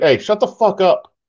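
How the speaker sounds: mock offhand snap. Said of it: "and then he was like".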